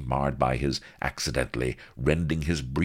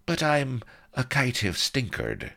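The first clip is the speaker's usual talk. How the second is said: high, self-pitying complaint; martyred; 10 semitones higher than usual. A narrator's reading. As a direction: play the wronged martyr. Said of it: "all martyred".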